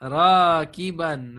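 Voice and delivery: "Raqiban" said very slowly, ending -an clear; mansoob form. Shown as a demonstration. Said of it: "Make Raqib mansoob".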